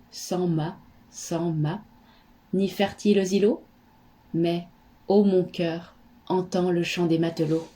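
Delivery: measured poetry reading, pausing after each phrase; poem recitation. Acted. Reads a poem aloud. (récitation poétique posée, entrecoupée de silences)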